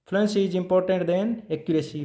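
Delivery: very slow, each word given its own beat; slow dictation. Shown as a demonstration. Teacher giving students a point to copy, slowly. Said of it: "teacher dictating a principle".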